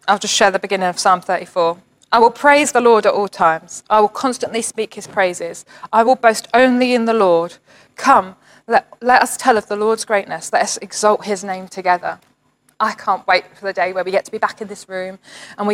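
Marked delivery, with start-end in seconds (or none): 2.1-12.2 praise reading. Acted. Pastor reading Psalm 34 as a call to worship, joyful. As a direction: lift the verses up in worship.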